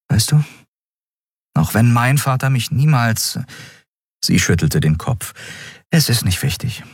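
captain softens while confiding in Miko. Acted. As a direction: open up tenderly to the boy. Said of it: "Andriels Stimme wurde wieder sanfter".

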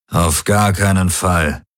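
a slow, mildly growled refusal; understated growl. Acted. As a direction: refuse through your teeth, slowly. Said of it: "knurrte Daraios".

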